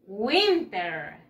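WINTER drawn out, falling at the end; model pronunciation. Shown as a demonstration. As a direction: say "Winter" slowly for pupils to copy. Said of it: "Let's practice again the pronunciation". (pronunciación modelo, alargada)

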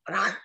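dog snarl. Acted. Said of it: "snapped at it with his teeth".

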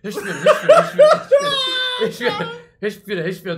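high, loud and gasping with laughter; laughing breathlessly. Real, not acted. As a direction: try to catch your breath mid-laugh. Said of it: "Tô passando mal".

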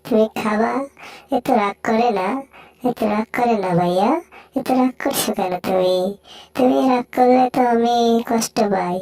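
lightly voiced low coaxing; coaxing cartoon character. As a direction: soothe an angry friend in a slightly deepened character voice.

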